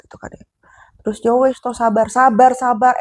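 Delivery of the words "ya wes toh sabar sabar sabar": louder, higher mocking repeat; mock angry outburst. Wife mockingly repeats the husband's calming words, louder. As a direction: throw his words back at him.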